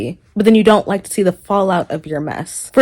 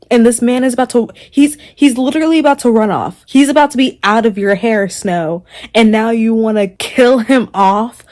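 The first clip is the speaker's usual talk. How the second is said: louder, fast, exasperated rant; getting heated; 2 semitones higher, 4 dB louder than usual. Real, not acted. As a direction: vent it louder and faster at the villain. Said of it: "getting heated".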